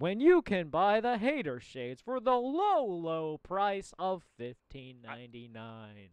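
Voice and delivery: slow, drawn-out TV pitch; over eager infomercial. Pretend. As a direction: sell it like a late night ad. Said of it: "you got the infomercial voice".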